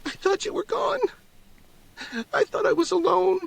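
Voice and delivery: put-on very high, tearful girl's voice; a child clinging on and sobbing it out; the daughter tells her father she thought he was gone, tearful and very high; crying young girl.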